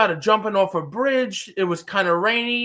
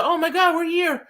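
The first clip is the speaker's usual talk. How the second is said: mock excitement; 7 semitones higher than usual. Mimicking contestants excited on landing.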